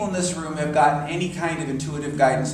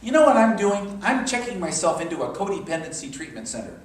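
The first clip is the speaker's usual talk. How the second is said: excited friend; 4 semitones higher, 3 dB louder than usual. Retold or imitated. Quoting wild friend's announcement.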